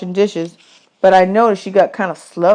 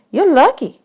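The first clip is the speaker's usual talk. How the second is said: higher, mock-grand woman's voice; woman at camp; 9 semitones higher than usual. Camp woman teasing boys about their tin china, higher. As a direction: serve it like fine china, teasing.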